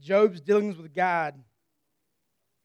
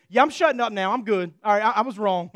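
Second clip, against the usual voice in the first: loud, laughing backpedal; chastened guy admitting he blew it; sheepish Job; 4 dB louder than usual. Retold or imitated. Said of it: "and Job says".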